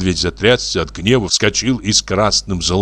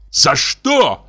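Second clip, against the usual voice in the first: higher, louder indignant shout; 8 semitones higher, 3 dB louder than usual. A narrator's reading. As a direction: fling the question back in rage. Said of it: "крикнул Иван Дмитриевич". (с криком, возмущённо)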